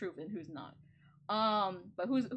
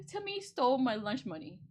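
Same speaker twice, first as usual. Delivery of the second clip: laughing; 4 semitones higher, 3 dB louder than usual. Real, not acted. Silly imaginary story about Timmy.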